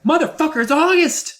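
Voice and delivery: a bee realizing he's out of time; squealing outrage. Retold or imitated. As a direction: squeak it out in disbelief. Bee shocked by his lifespan.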